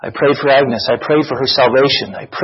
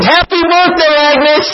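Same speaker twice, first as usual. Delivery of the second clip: screamed greeting; 12 semitones higher, slower than usual. Retold or imitated. Crowd greeting Agnes at the door, high shout. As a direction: yell it as she walks in. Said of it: "we all jumped up and screamed".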